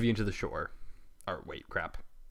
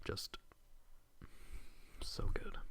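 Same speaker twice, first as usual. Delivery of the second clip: ordinary delivery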